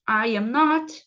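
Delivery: I AM NOT word by word, firm and loud; model pronunciation. Shown as a demonstration. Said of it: "Então, vamos lá". (pronúncia modelo, bem articulada)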